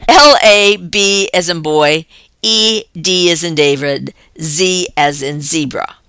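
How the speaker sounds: spelling it out letter by letter; clear, deliberate spelling for note-taking; dictating. Real, not acted. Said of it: "please take this down".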